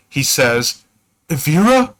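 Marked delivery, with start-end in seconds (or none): 1.3-1.9 a relieved, breaking call of her name, pitched higher; choked gasp of relief. Acted. Reunited with his lost love, a choked relieved gasp. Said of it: "in a choked gasp of relief".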